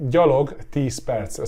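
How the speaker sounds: gyalog tíz perc said slowly and clearly; slow demo. Shown as a demonstration. Teacher says the short answer slowly. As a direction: spell it out slowly for learners. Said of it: "the short to the point answer".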